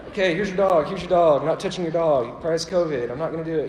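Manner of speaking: mock squeamish about the dog; nervous dodging. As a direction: keep the dog at arm's length with your voice. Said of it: "you know, that kind of thing".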